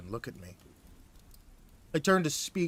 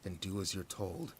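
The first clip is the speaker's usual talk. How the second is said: snarled. Acted. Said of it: "I snarled".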